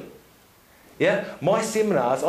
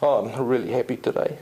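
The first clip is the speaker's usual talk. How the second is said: incongruent happy; 7 semitones lower than usual. Shown as a demonstration. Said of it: "Like, for example".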